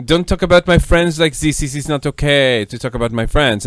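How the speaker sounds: vaguely French put-on accent. Friend scolding over criticism of her friends, French-like accent. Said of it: "she gets an accent?".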